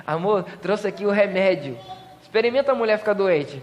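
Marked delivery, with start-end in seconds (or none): 0.1-1.8 softer, lower, doting wife; sweet wife voice. Acted. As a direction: coo it like a caring wife serving soup. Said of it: "Ela vai lá e fala assim".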